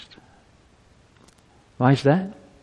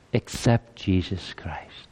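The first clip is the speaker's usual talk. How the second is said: whisper; 3 semitones lower, 6 dB quieter, slower than usual. Real, not acted. Whispered aside in sermon.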